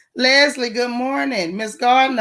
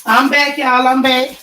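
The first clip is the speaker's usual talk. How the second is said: out of breath; 2 semitones higher, 5 dB louder than usual. Real, not acted. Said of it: "I'm about out of breath".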